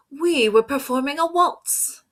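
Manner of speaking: high, airy violin voice; haughty violins explaining themselves. A narrator's reading. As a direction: speak as the proud violin section. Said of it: "said the violins".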